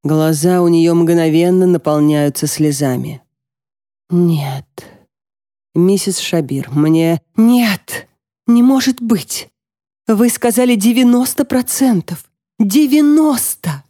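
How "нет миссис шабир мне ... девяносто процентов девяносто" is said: rising into a high anguished wail; distraught sobbing cry. Acted. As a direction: break down, voice climbing in disbelief. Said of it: "Она начинает рыдать".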